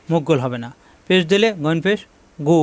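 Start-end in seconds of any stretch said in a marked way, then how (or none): 2.4-2.6 "গু" with lips a little rounded; slightly rounded lips. Shown as a demonstration. Teacher shows pupils the pesh vowel, slightly rounded. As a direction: round gently into the oo of "গু". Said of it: "মুখটা একটু গোল হবে".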